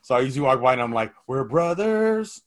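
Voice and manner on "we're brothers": high, drawn-out goofy chant; mock-brotherly showboating, pitched up; playful brotherly act. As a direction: stretch it out high like a silly brother routine. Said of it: "I want to say something brotherly".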